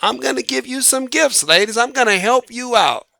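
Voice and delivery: a hint of a showy hostess at the door; Mother Nature as bouncer. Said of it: "And so Mother Nature, like".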